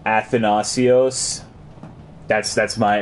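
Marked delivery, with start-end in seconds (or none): 0.1-1.4 "Athanasios" slowly, sounded out with care; pronunciation attempt. Real, not acted. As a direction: have a slow, higher-pitched go at "Athanasios". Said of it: "that's my jab at it".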